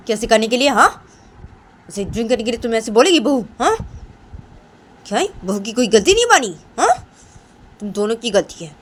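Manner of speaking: lively, insistent telling-off with questioning hooks; stern scolding. Acted. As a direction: scold both of them, repeating each point. Mother-in-law scolds and punishes both. (दोनों को सख़्ती से डाँटना)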